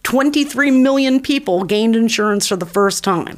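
confident campaign pitch. Shown as a demonstration. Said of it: "how about you say this?".

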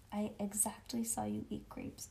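soft hushed confession; whispering. A narrator's reading. Child confesses to teacher, softly whispered. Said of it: "made my voice very whispering".

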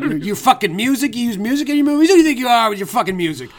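loud laughing mock rant. Host mock-ranting at Edgar Wright's movie music, laughing yell. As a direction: rant like a furious fan, half laughing.

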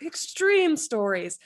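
slow, booming monster truck hype. Shown as a demonstration. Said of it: "like, monster truck voice".

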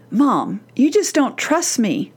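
put-on a drawn-out teen protest to mom; voiced teen complaint. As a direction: complain slowly, lightly acting the teen. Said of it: "Has your teen ever said to you".

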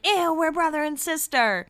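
high-pitched retold "ew" of revulsion; imitated grossed-out sibling protest; mock disgust. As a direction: recoil in playful horror at the idea. Acted disgust at being called couple.

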